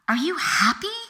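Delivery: breathy whisper, no voice at all; whispered question. Retold or imitated. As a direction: whisper it like a nagging inner voice. Inner voice repeating the question.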